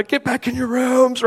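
high, drawn-out mock yell; retold dad's yell. Dad to woken children, exasperated mock yell. Dad voiced ordering kids back.

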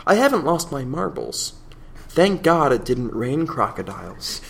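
measured received pronunciation English reading. Acted. Host redoing the fish account for contrast, received pronunciation. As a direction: read it in careful, regular RP English. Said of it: "regular received pronunciation English here".

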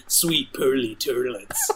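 slow mock redneck drawl; redneck accent. Co-host joining the toilet joke, in a redneck accent. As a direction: draw it out like a redneck. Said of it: "talk in a redneck accent".

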